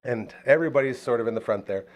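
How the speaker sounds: ordinary talk, nothing marked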